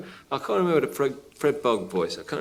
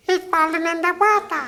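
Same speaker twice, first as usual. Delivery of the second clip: put-on very high little boy voice; Little Jim's high child voice; high-pitched child. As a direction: squeak it like a small child. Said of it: "a high-pitched child played by the speaker".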